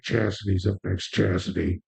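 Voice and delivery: low, fast, mumbled club announcer; stripper announcer voice. Shown as a demonstration. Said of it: "I don't sound enough like a stripper announcer 'cause it should be really mumbled".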